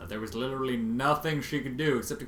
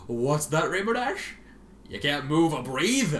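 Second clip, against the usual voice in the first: high, louder singsong mockery; mocking taunt; 3 semitones higher, 5 dB louder, slower than usual. Twilight taunting Rainbow Dash, cruel singsong mockery. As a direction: jeer like at a baby.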